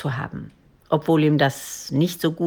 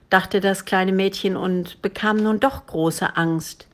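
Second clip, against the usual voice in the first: plain reading voice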